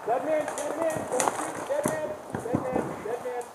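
high urgent call that you're out; shouted dead man call. Real, not acted. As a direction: yell it out so they stop shooting. Calling out hit, don't shoot.

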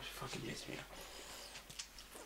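slow, hissed whisper, holding it in. Real, not acted. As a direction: drag it out under the breath. Whispered before the outburst.

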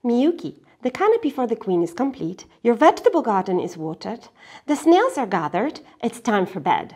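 a light grandfather, brisk, then firm; grandfather listing. Acted. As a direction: tick off the chores, then insist. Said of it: "grandfather listing".

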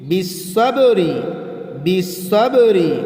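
বিসসবরি with a bouncing echo on the ba; qalqala on ba. Shown as a demonstration. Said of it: "কলকলা হরফ আছে বা".

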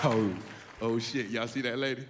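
low, hushed giggling aside to friends; giggly low whisper. Acted. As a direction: snicker to the guys about her. Acting himself spotting lady, giggling.

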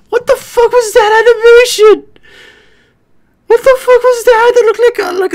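loud, high, laughing disbelief; real shocked outburst; shocked shouting. Real, not acted. Shocked by the animation.

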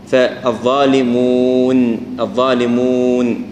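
الظالمون slow, with the و kept clear of nasality; الظالمون صحيحة بلا غنة; correct الظالمون. Shown as a demonstration. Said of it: "هي على الواو مفصلة ما عليها غنة".

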